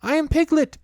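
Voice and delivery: high, loud squeak of protest; loud squeaky protest. A narrator's reading. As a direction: insist loudly in a tiny voice. Piglet insists.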